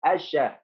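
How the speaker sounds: الشا as "ash-sha", silent lam and doubled sh. Shown as a demonstration. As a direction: go straight from "a" into a held sh in الشا. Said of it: "شدة وفتحة".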